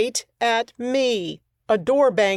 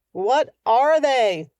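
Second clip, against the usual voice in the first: slow shout, louder and higher; 4 semitones higher, 3 dB louder, slower than usual. Acted. Maddie shouting up to the shopkeeper, louder and slower. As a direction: shout up to the window. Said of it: "I shouted".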